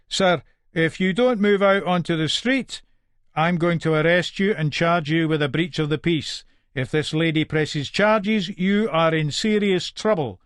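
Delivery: measured official warning, slowing at the end; stern older policeman. Acted. Older cop warns father to move on, stern.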